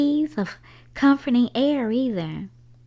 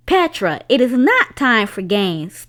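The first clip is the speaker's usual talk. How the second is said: scolding; 7 dB louder than usual. Acted. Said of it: "Stamatis said to her".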